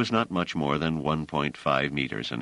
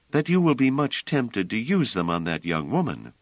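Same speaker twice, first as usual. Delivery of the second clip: Bliss, firm; 7 semitones higher than usual. A narrator's reading. Bliss overruling Treves about stepping out, firm and high. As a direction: lay down the point firmly as Bliss.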